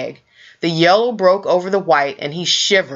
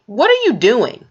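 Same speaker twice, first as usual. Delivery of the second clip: a sister's sharp, louder question; demanding; 5 semitones higher, 3 dB louder than usual. Acted. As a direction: call him out, a bit louder. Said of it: "she demanded".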